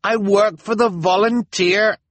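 high, frantic plea. A narrator's reading. Jacques pleading with the crowd, frantic. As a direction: beg them to understand. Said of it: "Jacques said frantically".

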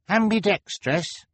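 high, slow, questioning echo; surprised question. A narrator's reading. Boy questioning what Kevin called himself, surprised. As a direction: pick up the word in high-pitched surprise. Klaus questions an unfamiliar description.

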